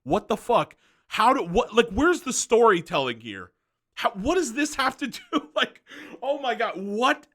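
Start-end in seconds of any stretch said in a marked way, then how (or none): 4.0-7.3 laughing in disbelief, pitch jumping up; incredulous laugh. Real, not acted. YouTuber reviewing a Disney short, laughing in disbelief. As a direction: laugh through it, can't believe it.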